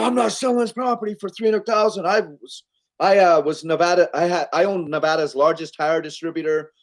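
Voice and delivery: a big dude slamming his fist down, lightly voiced; irate. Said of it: "he just freaking starts getting irate".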